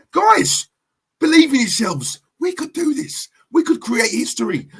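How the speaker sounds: hopeful pep talk; acted rallying plea. Manager urging players to believe, rousing excitement. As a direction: urge the squad on, pitch jumping up.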